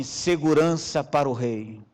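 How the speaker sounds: slow mock announcement from a rooster; rooster announcing. Rooster announcing the king, slow mock solemn. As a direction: drawl it out like a pompous guard. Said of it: "olhou pra mim e falou assim".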